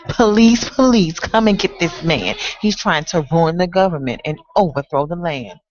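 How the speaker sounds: landlord crying out for the police; alarmed landlord. Acted. Landlord calls the police in poem.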